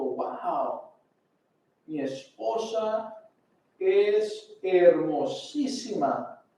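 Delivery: slow, softened marvelling at a wife; mild acted amazement. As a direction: draw it out slowly, as if only just noticing. Abraham, asombrado, mira a su esposa. (asombro actuado, lento y suave)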